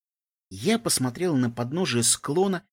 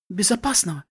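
higher, bitterly mocking question; bitter scoff; 6 semitones higher than usual. A narrator's reading. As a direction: throw the word back with a bitter laugh. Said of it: "в голосе её прозвучала горькая усмешка".

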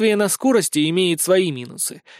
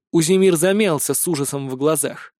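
plain reading voice

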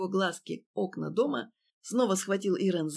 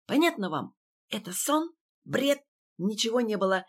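panicked tirade; 2 semitones higher, 3 dB louder than usual. Acted.

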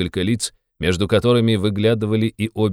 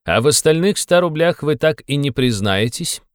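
reproachful, insistent; 6 semitones higher than usual. A narrator's reading. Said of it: "укоризненно и настойчиво произнёс он".

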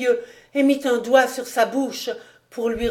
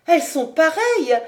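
high, louder delighted cry; childlike joy; 7 semitones higher, 4 dB louder than usual. A narrator's reading. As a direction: exclaim like an overjoyed child. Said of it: "s'écria Marie avec une joie d'enfant". (cri aigu de joie enfantine)

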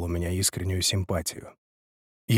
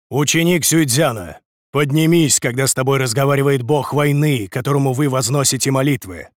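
stern commanding; 4 semitones higher, 4 dB louder than usual. Acted. General scolds disciple.

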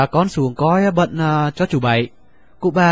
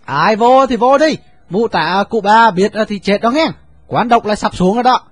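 louder, higher, frightened refusal; alarmed outcry; 6 semitones higher, 5 dB louder than usual. A narrator's reading. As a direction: push the warning out loud and high. Servants refusing, alarmed warning.

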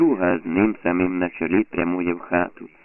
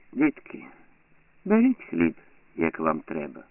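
quiet, unhurried neighbour; calm; 3 dB quieter than usual. A narrator's reading. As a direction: answer the children gently. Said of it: "спокійно відказує".

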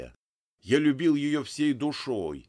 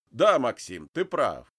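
pleased; 4 dB louder than usual. Acted. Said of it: "довольно кивнул он".

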